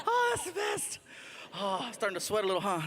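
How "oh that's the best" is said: squealing laughter; laughing hard. Real, not acted. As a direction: talk through a high laugh. Cracking up.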